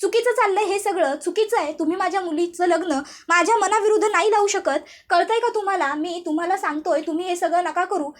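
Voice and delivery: a father half-yelling to stop the wedding; mock shouting father. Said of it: "अवनीचे बाबा ओरडत असतात".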